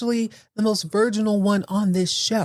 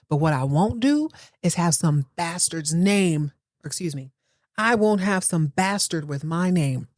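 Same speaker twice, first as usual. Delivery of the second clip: mock outraged Richard. Richard ranting at Cassandra, hammed-up mock outrage. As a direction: drag out the insults, mock fury.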